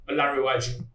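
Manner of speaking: name rushed through as one run. Shown as a demonstration. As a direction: rush through "Olanrewaju" without separating the syllables. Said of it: "you rush through it".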